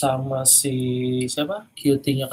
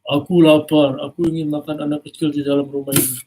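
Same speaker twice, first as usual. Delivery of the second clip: louder, growling hungry giant; threatening giant; 4 dB louder than usual. Acted. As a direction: threaten the rival loudly. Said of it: "kata dia gitu".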